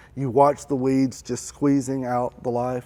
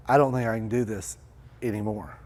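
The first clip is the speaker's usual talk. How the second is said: softer, trailing off; giving up; 4 semitones lower, 6 dB quieter, faster than usual. Acted. A burned-out person admitting defeat, trailing off softly. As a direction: let the last word fall away.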